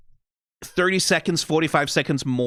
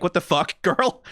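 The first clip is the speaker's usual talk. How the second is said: laughing disbelief; 4 semitones higher than usual. Retold or imitated.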